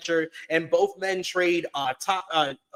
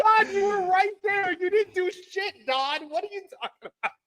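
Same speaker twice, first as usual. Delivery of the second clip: mock indignant retort; 13 semitones higher than usual. Mocking a retort to Don for doing nothing, high and indignant, then fast and fading. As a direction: scold him, then rush out the last question.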